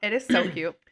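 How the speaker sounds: talking with a mouthful of cookie; mid-bite, words round the food; chewing while talking. Real, not acted. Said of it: "Sorry, I'm munching on my cookie".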